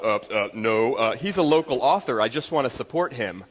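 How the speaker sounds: retelling a flustered, stammering fib to the bookseller, ending in a nervous laugh; lying to the cashier about his own book, flustered. Retold or imitated. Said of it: "here's what came out of my mouth".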